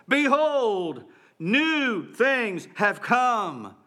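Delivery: slow, ringing proclamation of joy; emphatic exclamation. Shown as a demonstration. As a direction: say it with an exclamation point. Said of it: "There should be an exclamation point after it".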